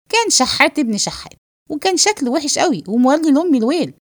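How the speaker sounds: talking while chewing; mouth full. Acted. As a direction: chatter on through a bite of food. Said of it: "قول، قول وهو يمضغ الطعام". (كلام وهو بيمضغ الأكل)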